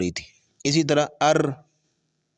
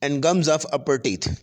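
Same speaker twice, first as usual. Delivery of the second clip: slow dictation; much slower than usual. Shown as a demonstration. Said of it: "اس کو ہم English میں بھی لکھ سکتے ہیں".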